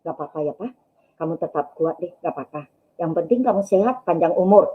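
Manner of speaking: soft, low reassurance; retold comforting. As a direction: gently console an ailing husband. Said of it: "Saya hibur dia".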